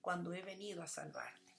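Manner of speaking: Yeshua lamenting. Acted. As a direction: lament over the city gently. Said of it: "decía Yeshua".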